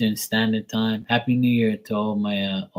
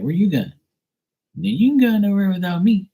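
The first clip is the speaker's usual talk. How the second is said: voicing the dog; 11 semitones higher, 4 dB louder than usual. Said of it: "She'd be like".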